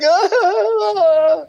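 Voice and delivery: high-pitched imitation wail; mock crying. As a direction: imitate bawling on a long "ah". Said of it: "And then I'm crying".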